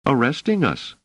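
understated grim announcement. A narrator's reading. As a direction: answer grimly. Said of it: "said Doris grimly".

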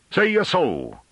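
high, challenging farmer's retort; rising voice. A narrator's reading. Farmer challenging the scholar, voice rising. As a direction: let the voice leap up in challenge. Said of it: "Rouffrant's voice rose".

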